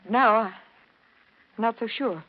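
trembling, halting and slow; shaky from fear and cold; shivering. Acted. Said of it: "you're, you're shivering".

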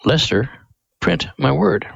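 a hint of a solemn heavenly voice; voice of God. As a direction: call him by name like God calling from above. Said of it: "God's voice came to him and said".

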